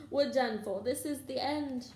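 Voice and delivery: high, wailing hopelessness; despairing moan. A narrator's reading. Ron at the locked door, despairing moan. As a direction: wail that all is lost. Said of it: "Ron moaned as they pushed helplessly".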